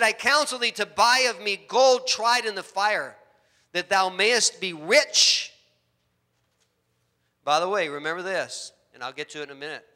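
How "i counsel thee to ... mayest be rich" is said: solemn scripture voice. Retold or imitated. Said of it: "He said".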